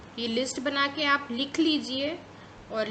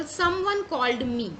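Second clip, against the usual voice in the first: slow dictation; 3 dB louder, much slower than usual. Shown as a demonstration. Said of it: "जैसे for example".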